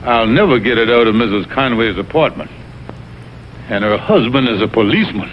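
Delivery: mope to yourself about the mess; low moaning self-pity; gloomy lament. Acted. Alone, lamenting his predicament.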